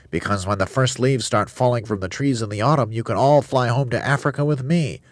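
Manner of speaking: high chirpy bird; eager high volunteer. A narrator's reading. Roly-poly bird voice.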